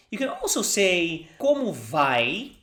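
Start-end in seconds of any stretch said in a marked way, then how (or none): 1.4-2.6 Como vai drawn out slowly; slow model phrase. Shown as a demonstration.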